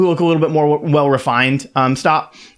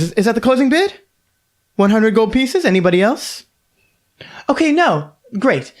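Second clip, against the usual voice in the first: bright, higher auctioneer announcing the lot; 10 semitones higher than usual. Acted. Auctioneer announcing the winner to the room. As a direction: call the bid like a lady auctioneer. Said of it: "she goes".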